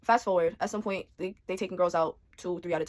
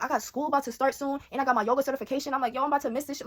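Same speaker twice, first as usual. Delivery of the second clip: higher, frantic worry; rising panic; 6 semitones higher than usual. Retold or imitated. In the holding cell, panicking about missed plans, frantic. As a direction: race through the list in alarm.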